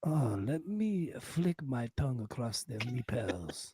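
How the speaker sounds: suave mock Spanish accent; Banderas. Host greeting his leading lady, mock Spanish accent. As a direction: play a Spanish romantic lead, hammed-up. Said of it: "Mister Banderas".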